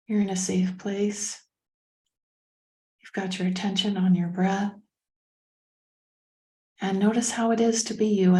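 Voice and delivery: calm meditation guidance with long pauses; unhurried, even-voiced meditation leader; guided meditation. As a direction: lead a breathing meditation, leaving space between phrases.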